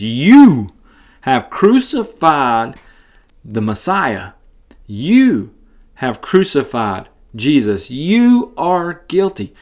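deliberate accusation with stressed YOU; accusing preacher. Retold or imitated. Peter preaching to the crowd, slow pointed accusation. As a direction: point the finger, pausing between phrases.

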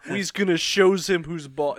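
mock Italian-American mobster accent; a hint of wise-guy Italian accent. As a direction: do a lightly voiced mobster accent. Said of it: "it's not like Wise Guy".

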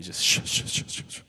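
horror movie shushing. Acted.

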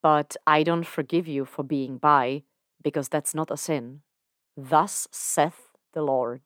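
a hint of a preaching God; mock decree. Lucifer declaring to Dan that bi is no sin, mock solemn.

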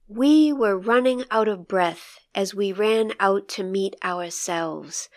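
measured, even poetry reading voice; poem reading. Acted. Host rereads the poem for listeners, as a poetry reading. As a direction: read it aloud like a poem, with space between lines.

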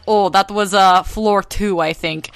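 put-on light Russian accent on a quote. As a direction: imitate a Russian rescuer lightly. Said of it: "giving him a Russian accent in English".

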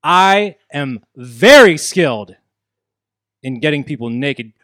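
slow smug boast. Acted. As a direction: draw out very skilled with menace. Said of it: "cut a promo on Sorg".

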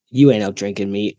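imitated Boston accent, deadpan. Teammate refusing to be outdrunk on shots, deadpan Boston accent. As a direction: lightly mimic a Bostonian's dry challenge. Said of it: "deadpan look and the Boston accent".

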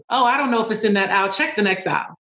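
quick, offhand brush-off from a busy worker; lightly acted dismissive store employee. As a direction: hurry the customer away, too busy to help. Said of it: "The more I was dismissive".

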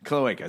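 "Cloaca" said klo-AY-ka; correct pronunciation. Shown as a demonstration. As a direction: stress a long AY in "Cloaca". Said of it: "we were mispronouncing it".

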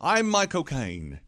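slow, drawled Michael Caine voice; lightly voiced Michael Caine, slow; Michael Caine impression. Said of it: "Michael Caine's answering machine".

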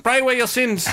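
high sing-song laughing nun; mock Mother Teresa. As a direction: chirp it like a silly nun.

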